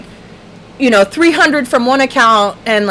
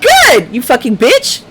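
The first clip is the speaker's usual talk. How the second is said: gloating; 2 semitones higher, 3 dB louder than usual. Retold or imitated. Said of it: "was like".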